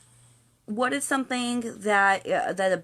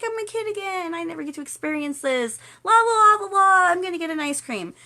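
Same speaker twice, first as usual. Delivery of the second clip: put-on high, childlike glee bursting louder; overjoyed; 10 semitones higher, 7 dB louder than usual. Happy visitor feeling like a kid at Disneyland, giddy high voice. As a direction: gush like a kid let loose, hammed-up. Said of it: "be the most happy person".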